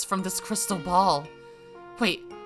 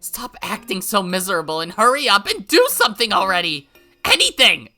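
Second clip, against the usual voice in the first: loud, high, exasperated; furious yell; 9 semitones higher, 12 dB louder than usual. Acted. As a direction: yell at her to hurry up. Rika yells at Hanyu.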